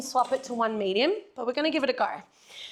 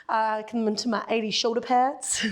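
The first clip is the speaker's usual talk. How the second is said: put-on playful American accent on "come into my eighty shoulder pads"; a light, jokey American twang. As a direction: slip into a mock American accent, half by accident. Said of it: "Don't know how that got an American accent".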